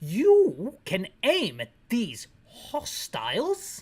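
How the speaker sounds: slow, drawn-out speech in a bad British accent. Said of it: "Is that how they say hostiles in Britain?".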